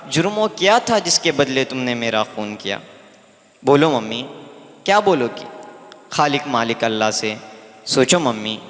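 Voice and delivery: rhythmic verse recital, rising appeals dropping to low questions; poem recitation. Acted. Daughter in heaven questions her mother until the line drops, poem recitation. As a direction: press the questions in verse, then let the calls sink low. Poem resumes after explanatory aside.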